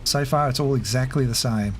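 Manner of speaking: winded after running up stairs; breathless, catching breath. Real, not acted. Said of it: "Let me catch my breath".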